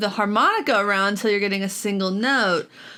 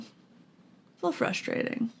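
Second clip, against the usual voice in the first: slow, breathy whisper under the breath; 9 dB quieter, slower than usual. Real, not acted. Repeating frustration to herself in a slow whisper. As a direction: mutter it to yourself, slowly.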